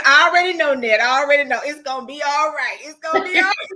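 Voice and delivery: lightly voiced sister waving it off; dismissive sister. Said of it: "And she said".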